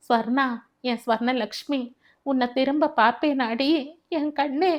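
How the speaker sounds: a touch of crying, rising toward the end; lightly acted grief, calling out to his wife; mild wail. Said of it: "பெரிதாக அழ ஆரம்பித்தான்". (மனைவியை நினைத்து லேசாக அழும் குரல்)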